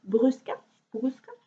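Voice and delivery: Brusca said as "broos-ka", tried twice; Portuguese pronunciation. Shown as a demonstration. Knitter unsure of a Portuguese brand name, Portuguese pronunciation of Brusca. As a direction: sound out Brusca with an "oo" vowel. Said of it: "It's Portuguese".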